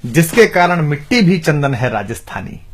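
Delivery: measured declamation of heroic verse; rhythmic Hindi verse recital; poem recitation. Acted. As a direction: recite like a poet, phrase by phrase.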